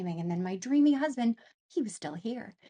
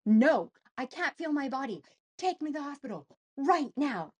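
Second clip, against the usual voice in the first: raised, insistent mock yell; retold yelling; 5 semitones higher than usual. Wife insisting to her husband she needs help, retold yelling. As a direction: demand it in a high, urgent voice. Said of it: "I was screaming and yelling at my husband".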